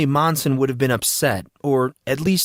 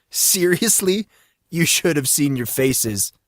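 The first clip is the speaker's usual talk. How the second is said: high, bouncy, defensive whine; Monson, playful protest; 5 semitones higher than usual. Acted. Monson defends his prank to his angry friends, high and whiny. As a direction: laugh it off, pleading innocence.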